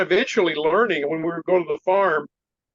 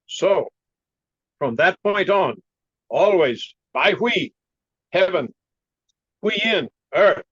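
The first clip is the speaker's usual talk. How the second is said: put-on slow, deliberate Chinese-accented teacher; measured phrases in an imitated Chinese accent; 3 semitones higher, slower than usual. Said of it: "I have to do his funny voice like that".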